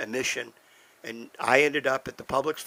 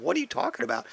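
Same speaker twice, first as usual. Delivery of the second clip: jumps much higher in pitch, disbelieving; can't believe what he's hearing; incredulous shock; 10 semitones higher, much faster than usual. Retold or imitated. Shocked by doctor's news.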